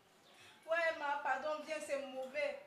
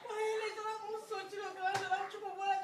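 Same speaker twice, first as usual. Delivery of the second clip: tearful; 3 dB quieter than usual. Acted. Daughter cries on the phone.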